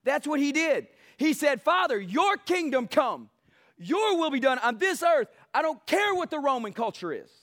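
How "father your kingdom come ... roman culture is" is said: defiant declaration. Retold or imitated. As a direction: declare it like a war cry. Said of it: "You're declaring war against Rome".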